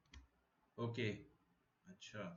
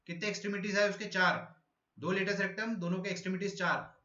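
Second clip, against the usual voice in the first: higher, louder teacher projection; loud, higher lecture voice for students who can't hear; speaking louder; 4 semitones higher than usual. Real, not acted. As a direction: project every word over a faint mic. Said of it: "तो मैं अब जोर से बोलूंगा".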